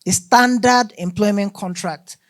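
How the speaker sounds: emphasize the word standard; "standard" picked out with firm emphasis; stress on standard. Real, not acted. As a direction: lean on "standard" before the rest of the phrase. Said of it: "I emphasize the word standard".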